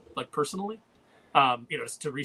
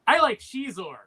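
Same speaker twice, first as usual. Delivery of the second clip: put-on little kid voice; 9 semitones higher, 8 dB louder, slower than usual. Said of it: "the kid goes".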